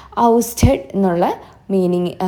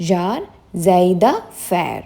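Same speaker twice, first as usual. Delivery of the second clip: ഷാർസൈ ദ ഫെയർ stretched out very slowly, weight on ദ; very slow model; much slower than usual. Shown as a demonstration. Teacher slowly spelling out ഷാർസൈ ദ ഫെയർ by sound for students. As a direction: draw out each part of ഷാർസൈ ദ ഫെയർ. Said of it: "ഇതൊന്ന് repeat ചെയ്ത് നോക്കൂ".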